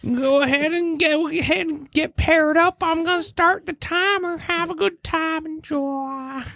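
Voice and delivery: host a speed dating show; announcer voice. Acted. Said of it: "What is this voice?".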